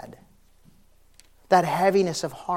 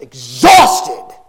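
exhausted; 9 semitones higher, 16 dB louder than usual. Acted. Building list ends on exhaustion.

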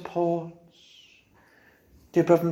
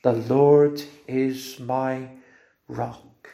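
slow hushed confession; 4 semitones lower, much slower than usual. Shown as a demonstration. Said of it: "Can you say it with the Lord listening on now?".

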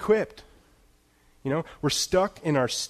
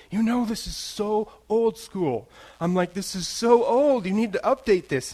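mock disdain; 7 semitones higher than usual. Mocking coworker's old phone.

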